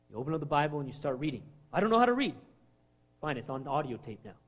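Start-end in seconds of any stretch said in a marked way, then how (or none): 1.7-2.3 whiny excuse. Retold or imitated. Mocking excuse-maker.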